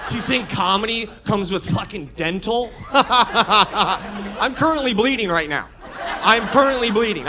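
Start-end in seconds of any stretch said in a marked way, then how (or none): 2.9-7.3 talking through blood in mouth; mouth full of blood. Real, not acted. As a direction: speak around a bleeding mouth. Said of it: "I'm choking on my own mouth blood".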